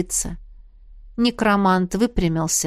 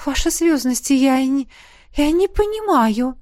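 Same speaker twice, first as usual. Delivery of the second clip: timid, higher faltering babble; babbling; 6 semitones higher than usual. A narrator's reading. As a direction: stammer it out nervously. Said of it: "пролепетала она".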